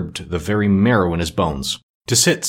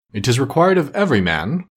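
slightly raised, solemn declaiming; lightly voiced ghost; 4 semitones higher than usual. Ghost answering why spirits walk the earth, mildly solemn. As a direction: lightly play a mournful spirit.

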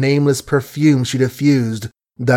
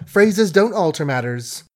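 a quick, higher echo of the phrase; quick lift of speech; 6 semitones higher than usual. A narrator's reading. Margaret echoing Billy's phrase back with a lift. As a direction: bounce the word phrases up lightly. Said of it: "she assented with a quick lift of speech".

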